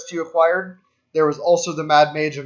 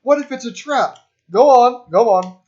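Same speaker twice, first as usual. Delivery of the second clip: high, loud, eager "go on"; mock eager goading; 8 semitones higher, 7 dB louder than usual. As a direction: egg them on with glee. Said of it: "out of the Hobbit, where it's just like".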